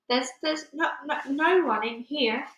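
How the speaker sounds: high, halting frightened stammer; nervous stammer. Acted. The nervous BFG lying to the Bloodbottler, high frightened stammer. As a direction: stumble over the words in fear. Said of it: "he stammered".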